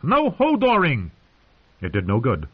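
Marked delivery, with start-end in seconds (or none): 0.0-1.1 high, slow shouted order. A narrator's reading. Bran to roaring Hodor, shouting back. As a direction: shout him down, drawing it out. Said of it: "Bran shouted back".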